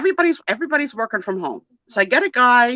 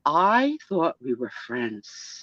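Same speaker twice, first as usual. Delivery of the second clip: mock hurt; 7 semitones lower, 7 dB quieter, much slower than usual.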